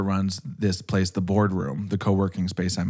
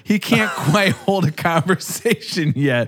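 laughing; 8 semitones higher, 3 dB louder than usual. Real, not acted. Laughing at himself mid-sentence.

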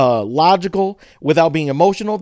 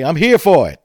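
aggressive; 5 dB louder than usual. Shown as a demonstration. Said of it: "No, that's aggressive".

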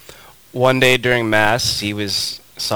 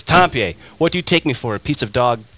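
mock angry outburst, louder and higher; snapping; 5 semitones higher, 4 dB louder than usual. Bishop scolding his friend mid-Mass, retold snap. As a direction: snap at him in retold fury. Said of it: "and he snaps".

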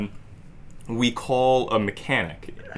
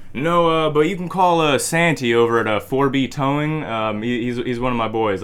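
mechanic voiced; 4 semitones higher, 6 dB louder than usual. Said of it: "Oh, he said".

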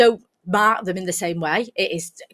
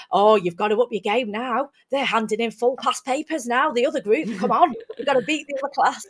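challenging the class; 5 semitones higher than usual. Retold or imitated. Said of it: "I say, uh, to the other group".

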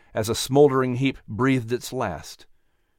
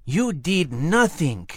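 menacing voice; 4 semitones higher, slower than usual. A narrator's reading. Dark voice from the darkness.

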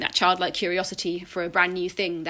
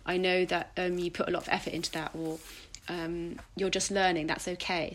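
gentle reassurance. Retold or imitated. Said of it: "I talk to the baby version of myself, I say".

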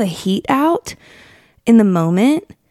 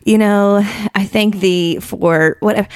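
slow, hammed-up pious prayer voice; mock lofty prayer. Host mocking people's stiff prayers to God, hammed-up pious tone. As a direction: lightly mimic an overly formal churchy prayer. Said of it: "with these lofty prayers".

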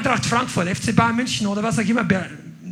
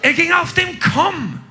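loud, high, slow emphatic preaching; fervent pulpit proclamation; preaching at full force; 6 semitones higher, 3 dB louder, slower than usual. Acted. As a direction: hammer the point home. Sermon climax on walking on water.

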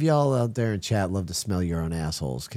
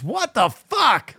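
mock disgust; 11 semitones higher, much slower than usual. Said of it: "He walks in and goes".

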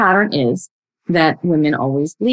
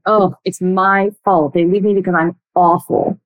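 self-blaming voice. Shown as a demonstration. Coach showing listeners the self-blaming voice. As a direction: lightly play the person who blames himself. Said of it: "in the voice of the second person".

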